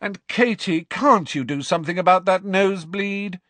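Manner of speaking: high, firm scolding instructions; lecturing captain. A narrator's reading. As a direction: lay down the rules, exasperated.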